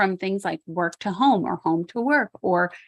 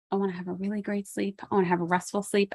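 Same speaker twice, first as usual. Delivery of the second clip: calm; 4 dB quieter, faster than usual. Shown as a demonstration. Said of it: "how do I wanna sleep?".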